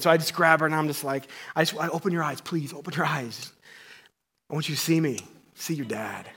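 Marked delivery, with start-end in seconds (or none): 1.5-6.3 tender plea. Retold or imitated. Father talking to newborn.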